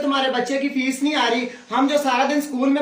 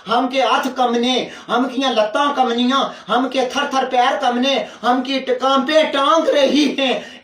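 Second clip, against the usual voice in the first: complaining maid; 2 semitones lower than usual. Acted. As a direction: scold them in a thick rural dialect. Maid complains and accuses her mistress.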